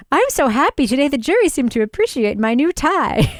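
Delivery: mock giddy diary voice. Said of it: "letters home in loopy handwriting".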